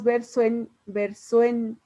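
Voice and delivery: VERSO EN enlazado, la O y la E en una sola sílaba; con sinalefa. Shown as a demonstration. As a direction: une SO y EN sin pausa, recalcándolo. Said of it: "así lo hablamos". (pronunciado con sinalefa, VERSO EN)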